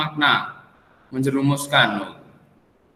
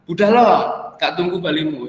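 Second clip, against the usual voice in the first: exclamatory call; 2 semitones higher than usual. Shown as a demonstration. Teacher quoting a song to show exclamations, exclamatory call. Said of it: "Untuk seruan, untuk perintah".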